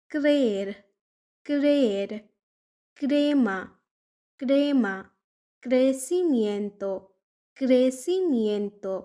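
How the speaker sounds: ক্রের, ক্রেমা, ক্রেসিমিয়েন্তো each begun with a crisp ক্র cluster; Spanish cr words. Shown as a demonstration. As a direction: model the ক্র cluster clearly in each word. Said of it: "ক্র এর মতো উচ্চারণ".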